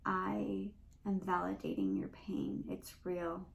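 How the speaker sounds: slow, earnest and steady; slow validation. Shown as a demonstration. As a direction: let each word land for her. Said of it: "take a moment and say".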